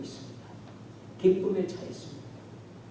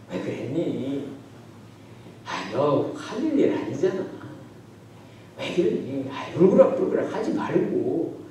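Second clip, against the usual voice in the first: gentle coaxing; slower than usual. Acted. God approaching angry Cain, gently coaxing. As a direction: soothe them out of their anger. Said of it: "하나님 부드럽게 오더니".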